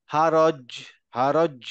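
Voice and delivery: "হারজ" stopped on জ with a brief release; halted echo. Shown as a demonstration. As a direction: halt on the জ of "হারজ", just a small bounce. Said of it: "মানে একটু থেমে গেলাম".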